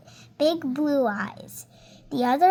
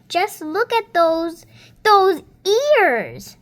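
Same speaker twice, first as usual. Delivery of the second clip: mock jeering; 4 semitones higher, 6 dB louder than usual. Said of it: "shrieked with laughter".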